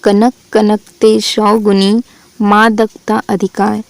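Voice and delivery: slow, measured reading of the couplet; a slow recitation of the couplet for students; verse recitation. Shown as a demonstration. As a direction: recite the couplet slowly, one word at a time. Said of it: "वाक्य देखें".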